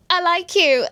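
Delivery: high, giggly squeal; mock gushing confession. Contestant confessing to her crush as reason five, giggly squeal. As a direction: squeal it with a laugh in the voice.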